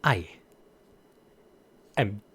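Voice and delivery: whispered menacing name. Pretend. Streamer whispering the character line as a test. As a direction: breathe the name like a secret.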